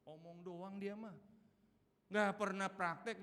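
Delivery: ordinary talk, nothing marked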